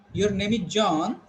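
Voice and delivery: slow, tune rising on John like a question; asking. Shown as a demonstration. Teacher asking John his name, rising question tone. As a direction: turn the statement into a question by lifting "John". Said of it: "I am going to ask like this".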